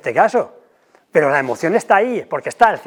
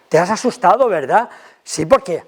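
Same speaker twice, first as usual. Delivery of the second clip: empathetic; 2 semitones higher than usual. Shown as a demonstration. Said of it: "le pongo palabras".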